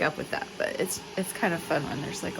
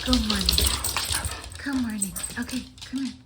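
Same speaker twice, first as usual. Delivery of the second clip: talking to a dog; 5 semitones higher, 3 dB louder, faster than usual. Real, not acted. Greeting dogs.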